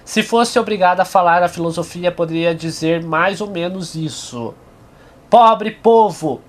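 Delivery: emphatic, measured literary reading; reading aloud. Acted. Lecturer reads Nietzsche's passage to viewers, emphatic reading aloud. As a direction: read the passage out with deliberate, projected phrasing.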